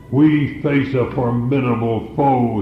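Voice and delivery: lightly voiced rallying commander; a hint of a general steeling his troops; commander's challenge. Preacher voicing a commander before battle, lightly rallying. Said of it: "sound very much like the words of a commander".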